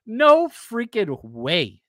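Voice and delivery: slow, laughing "no freaking way", drawn out; laughing disbelief. Real, not acted. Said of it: "laughing disbelief".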